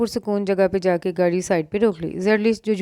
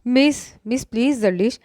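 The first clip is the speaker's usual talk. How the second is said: raised voice; 4 semitones higher than usual. Acted. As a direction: call out to snap her out of panic. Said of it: "ऊंची आवाज़ में उसका नाम लिया". (ऊंची आवाज़ में पुकारना)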